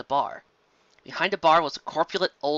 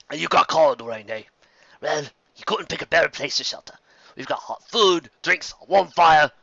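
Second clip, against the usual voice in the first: lightly voiced jolly barman; friendly, folksy welcome; old bartender voice; 4 dB louder than usual. Bartender greets the newcomers warmly.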